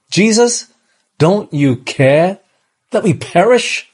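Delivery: high, pleading cry of accusation; a frightened reproach; accusing cry. Acted. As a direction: cry it out as a demand, not a request. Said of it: "could have actually been said a different way".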